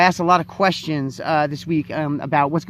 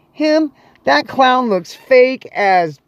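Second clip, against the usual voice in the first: scornful disbelief; 5 semitones higher, 3 dB louder, much slower than usual. Acted. Acting scornful Brooklyn DJ's reply.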